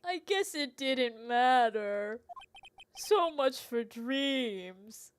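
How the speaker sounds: a lightly voiced cowardly lion. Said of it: "He's kinda giving me Cowardly Lion".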